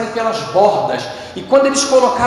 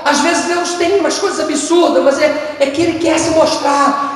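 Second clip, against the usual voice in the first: higher, raised cry of wonder; excited preaching shout; 6 semitones higher than usual. Real, not acted. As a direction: shout it out to the church. Exclama durante a pregação. (pregador exclamando alto e bem mais agudo)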